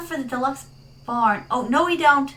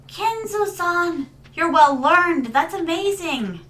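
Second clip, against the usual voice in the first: sweet persona voice; 4 semitones higher, slower than usual. Acted. Chat reply in persona voice.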